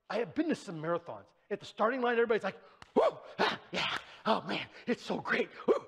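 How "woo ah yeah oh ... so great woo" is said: excited runners. Retold or imitated. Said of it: "They're all excited".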